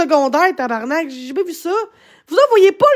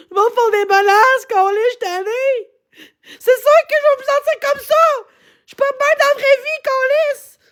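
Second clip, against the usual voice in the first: higher, voice catching with tears; tearful; 3 semitones higher than usual. Real, not acted. Streamer crying about online threats, tearful. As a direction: push the words out while crying.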